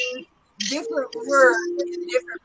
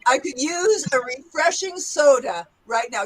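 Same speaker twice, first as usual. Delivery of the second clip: Southern accent. Shown as a demonstration. Teacher corrects student's attempt, Southern accent. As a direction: model a gentle Southern accent. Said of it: "let's go to the Southern accent".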